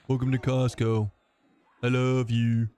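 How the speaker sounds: deadpan movie quote. Shown as a demonstration. Streamer repeating the Costco line deadpan. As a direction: deliver it dry, like the film. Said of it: "Is that better?".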